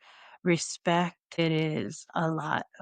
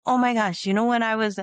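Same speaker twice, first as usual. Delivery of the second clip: imitated excitement; 4 semitones higher, 4 dB louder, faster than usual. Travellers eagerly recalling their Hawaii trip.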